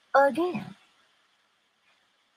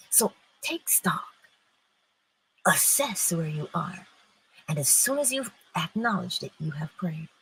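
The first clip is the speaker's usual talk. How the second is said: hushed exhortation; 2 semitones lower, 6 dB quieter than usual. Acted. Quiet closing exhortation.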